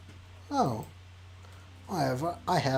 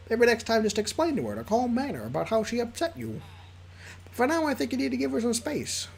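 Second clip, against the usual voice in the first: put-on a lightly squeaky young guy; squeaky Liam voice; 4 semitones higher than usual. Lightly squeaky Liam giving calm advice. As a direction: nudge the voice up into Liam's squeak. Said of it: "the squeaky voice I do for Liam".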